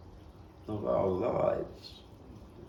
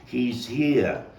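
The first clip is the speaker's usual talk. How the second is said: urgent louder shout rising to a cry at the end; retold yelling; 8 dB louder, slower than usual. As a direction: shout the news up the stairs, breathless. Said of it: "he's yelling to me".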